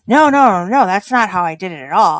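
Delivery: quick, emphatic denial, loud at first; hurried defensive rebuttal; retold protest. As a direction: jump in and deny it fast.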